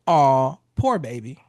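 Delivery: low, crooning sympathy, swelling on the first word; like a crooning singer. Shown as a demonstration. Husband soothing his upset wife, low crooned sympathy. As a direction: drop into a low crooner's tone and draw it out. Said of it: "drop your voice to a low tone".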